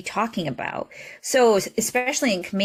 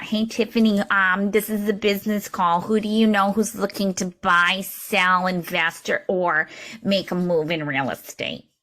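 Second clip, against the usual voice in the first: bad Reba Realtor voice. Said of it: "really bad Reba Realtor voice".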